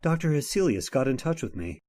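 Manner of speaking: measured storyteller narration of a ghost tale; story narration. A narrator's reading. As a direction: tell it like an old radio mystery narrator.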